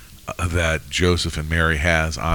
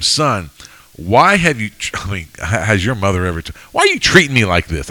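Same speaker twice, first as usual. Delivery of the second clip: mock hurt mother. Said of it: "a little bit more hotter".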